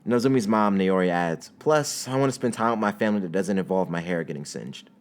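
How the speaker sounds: calm read-aloud story voice, characters barely voiced; story narration. A narrator's reading. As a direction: read the chapter to your viewers. Reads fanfic chapter aloud.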